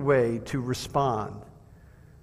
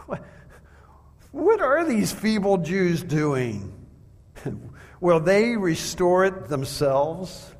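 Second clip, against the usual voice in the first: slow, mocking sneer with a laugh; a scoffing enemy ridiculing the wall builders, mocking; jeering. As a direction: taunt the builders slowly, amused. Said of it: "And he jeered at the Jews".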